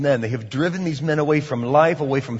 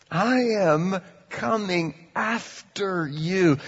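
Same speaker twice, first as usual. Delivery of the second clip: God's resolve; 4 semitones higher, slower than usual. Retold or imitated.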